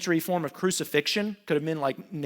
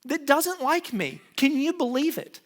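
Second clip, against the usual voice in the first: much higher, whining complaint; whiny crybaby; 10 semitones higher, slower than usual. Retold or imitated. Haman complaining about Mordecai, high crybaby whine. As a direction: pout like a sulking child. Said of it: "it's like a little crybaby".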